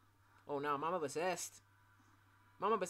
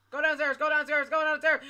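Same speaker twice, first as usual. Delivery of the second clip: terrified gibbering; 3 semitones higher, 7 dB louder than usual. Real, not acted. Urging self while scared.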